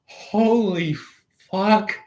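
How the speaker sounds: stunned holy fuck; startled exclamation. Pretend. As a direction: blurt it as it hits you. Sudden insight in a dream.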